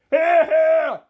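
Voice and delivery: loud, high wedding-guest cheer; yelled cheer. A narrator's reading. A guest at the wedding toast yelling his approval. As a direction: shout it out across the hall. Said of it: "someone else yelled".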